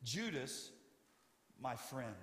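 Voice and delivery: soft and gentle address; quiet, kind words to a traitor. Shown as a demonstration. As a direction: say it kindly to the betrayer. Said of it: "would speak to them like this".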